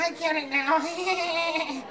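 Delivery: very slow, high dawning voice; slow realization. Acted. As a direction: drag out the realization. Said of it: "and I was like".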